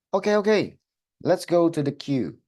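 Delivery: rally them into the queue, high and bright; leading voice. Acted. Teacher playing a leader calling pupils to queue, high lively call.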